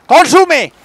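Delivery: loud, high command; urgent shout. Real, not acted. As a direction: yell it at the screen. Urging the character to eat. (¡consume! gritado con urgencia)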